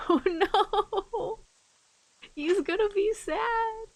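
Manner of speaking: mock pity.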